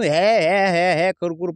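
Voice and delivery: mild imitation of a dog's cries; imitated dog cries. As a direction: copy the dog's repeated yelps in your own voice. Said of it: "असं ओरडा लागलं मगापासून".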